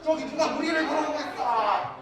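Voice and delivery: high, loud acted cry of terror; frightened scream. Disciples screaming at the figure walking on the water, frightened scream. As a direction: cry out in panic, drawing out the endings. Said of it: "소리를 지르는 거예요".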